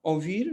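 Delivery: ओवीर drawn out slowly, each sound clear; slow demo of ouvir. Shown as a demonstration. Teacher to students, slow model pronunciation. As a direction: stretch ओवीर slowly for the class. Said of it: "आगे है ओवीर".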